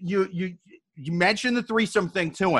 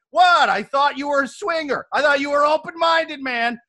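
mock outraged yelling; 5 semitones higher than usual. Girlfriend mock-scolding her boyfriend for refusing Larry, in a hammed-up outraged yell. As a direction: yell at him like he's the prude.

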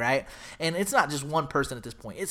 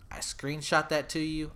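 unvoiced whisper to his co-host; whispered aside; 3 dB quieter than usual. Real, not acted. Telling his co-host he sent the screenshot, whispered. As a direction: breathe it out like a secret.

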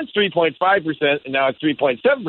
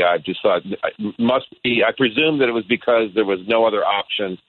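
over the phone; 9 semitones lower than usual. Real, not acted. Calling in from Seattle.

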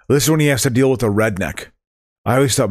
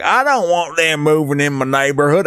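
Southern racist voice; 2 semitones higher than usual. Retold or imitated. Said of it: "I would do a Southern".

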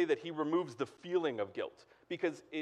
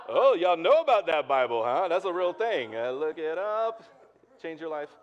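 joking excitement; 4 semitones higher, 9 dB louder than usual. Real, not acted. Joking aside about Bible.

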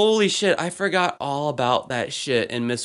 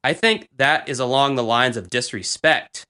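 measured, mildly cold teacher imitation; understated mock schoolteacher reproof; alienating teacher tone. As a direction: pause after the name, then reprimand coolly. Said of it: "in her normal a-, alienating tone".

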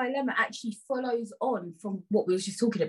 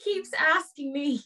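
higher-pitched put-on Irish; playful Irish lilt; Irish accent; 4 semitones higher than usual. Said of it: "Yeah, do an Irish one".

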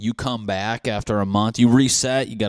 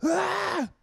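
short, very high shriek; high mock scream. People seeing the missing man return, high mock scream.

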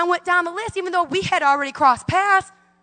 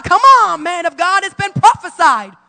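eager, louder call; excited; 2 semitones higher, 6 dB louder than usual. Retold or imitated. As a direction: urge him on with eager impatience. Eager young girl calling out.

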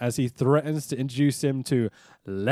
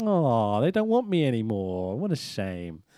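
low, sinking mock self-pity; mock-dejected Hogan; 5 semitones lower than usual. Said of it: "So he's like".

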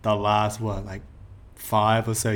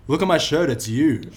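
higher, pressing voice that settles at the end; insistent calling out; 4 semitones higher, 3 dB louder than usual. Retold or imitated. Fan to puzzled singer, insistently calling out. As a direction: insist so the star finally gets it.

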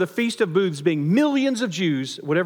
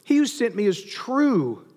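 slow, higher proclamation; crying out; 4 semitones higher, slower than usual. Acted. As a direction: lift it up and declare it to the crowd. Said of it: "He cries out".

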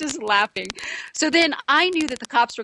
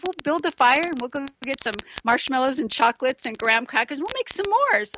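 excited plan; 3 semitones higher than usual. Retold or imitated. Joe explains the s'mores plan.

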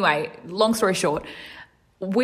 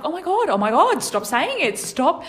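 mortified; 9 semitones higher than usual. Retold or imitated. Mortified pleading in court.

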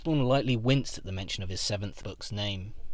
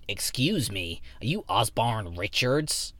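eager fan voice; slower than usual. Acted. Fan approaches author in coffee shop.

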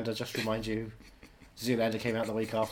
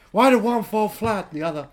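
mock conspiracy rant; 7 semitones higher, 8 dB louder than usual.

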